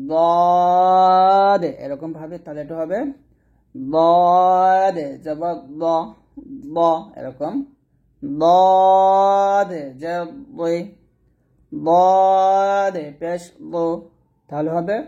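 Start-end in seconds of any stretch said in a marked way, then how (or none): 0.1-1.6 long, loud, thick দদ; heavy dad. Shown as a demonstration. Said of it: "দদ মোটা উচ্চারণ করতে হবে". 3.7-6.8 thick দ after a long, drawn-out দদ; heavy dad. Shown as a demonstration. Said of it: "দদ মোটা উচ্চারণ করতে হবে". 8.4-13.7 long, loud দদ with a thick d; heavy dad. Shown as a demonstration. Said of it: "দদ মোটা উচ্চারণ করতে হবে".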